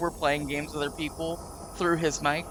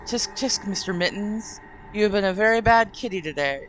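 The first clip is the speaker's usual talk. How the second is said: condescending; 2 semitones higher than usual. Acted. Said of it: "he says condescendingly".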